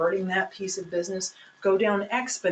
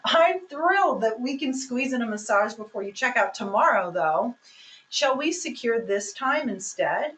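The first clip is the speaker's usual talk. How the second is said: enthusiastic. Shown as a demonstration. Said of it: "let me just show you even with body language".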